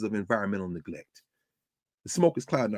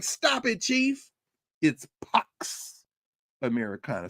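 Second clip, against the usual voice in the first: much higher, playful scolding; teasing Claudia Sheinbaum; 5 semitones higher, slower than usual. Retold or imitated. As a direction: scold him lightly in a higher voice. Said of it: "Claudia Sheinbaum is like".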